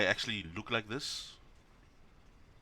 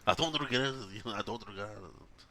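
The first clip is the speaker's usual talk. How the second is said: laughing mock echo. Mocking the video man.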